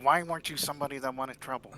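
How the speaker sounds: quick, annoyed scolding; a touch of exasperation, rattled off fast; mildly angry. Acted. Gun owner to the visitor who knocked, mildly angry. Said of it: "looking very angry at you".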